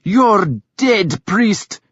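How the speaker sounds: a wild woman snarling at the priest; snarled threat. A narrator's reading. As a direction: spit it at him like a curse. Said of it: "Thyra snarled at him".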